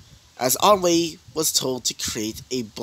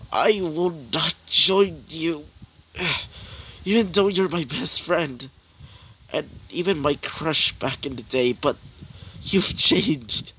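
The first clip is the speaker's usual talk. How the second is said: hero refusing his friend; 4 semitones higher than usual. Acted. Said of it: "As he would say this".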